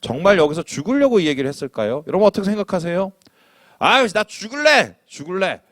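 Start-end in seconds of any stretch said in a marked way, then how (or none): 3.8-5.6 higher, slow whiny cry; mock despair. Churchgoer moaning about wanting to die, mock wail. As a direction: wail it like a sulking believer. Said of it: "이렇게 얘기하는 사람".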